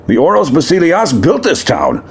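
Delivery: a lightly voiced proud demon prince, aggrieved. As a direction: speak as a wronged demon noble to the crowd.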